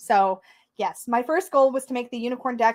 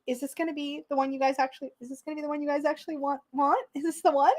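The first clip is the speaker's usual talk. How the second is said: anxious inner voice; 3 semitones higher, 5 dB quieter than usual. Retold or imitated. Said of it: "there was a part of me that was like".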